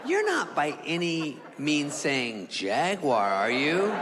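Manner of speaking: slow, deliberate disbelief; incredulous. Retold or imitated. Questioning the man about what animal it is, incredulous. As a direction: draw the question out, word by word.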